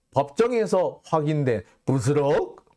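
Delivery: 법정에서 with a scoffing rising question; incredulous quoting. Shown as a demonstration. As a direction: read the headline with a sneering lift. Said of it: "법정에서 확인이 됐대요".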